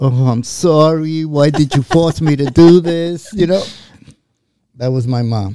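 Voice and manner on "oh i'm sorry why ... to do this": loud, slow, sorry, reproachful, apologetic tone. Retelling a mother apologizing after a spanking: imitating mother's woman part. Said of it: "giving me the woman part".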